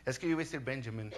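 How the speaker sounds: quick, amused self-correction; preacher laughing at his own mispronunciation; laughing at himself. Real, not acted. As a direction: chuckle through the slip.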